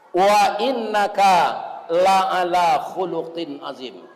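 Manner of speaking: slow, measured recitation; Quran recitation. Shown as a demonstration. Preacher quotes the verse praising the Prophet, recited slowly.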